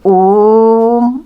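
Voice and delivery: loud "ओम" with the vowel held very long; prolonged Om. Shown as a demonstration. Teacher demonstrating the extra-long vowel to children, loud held "ओम". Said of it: "जैसे".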